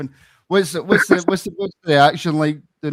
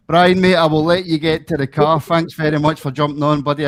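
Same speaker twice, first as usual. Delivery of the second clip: calling out; 3 semitones higher, 5 dB louder than usual. Real, not acted. Host calls out to caller.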